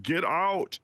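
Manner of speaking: mock action-hero warning, slowing on the last words; Arnold Schwarzenegger. Reading out friend's sticky note, light action-hero impression. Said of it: "say in his best Arnold Schwarzenegger voice".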